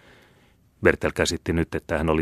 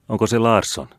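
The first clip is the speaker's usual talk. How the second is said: ordinary delivery, nothing marked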